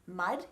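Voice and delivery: mud with a softened D at the end; soft final D. Shown as a demonstration. Coach explains word endings, soft D in mud. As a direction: let the D in mud land gently. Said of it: "not a really hard sound at the end".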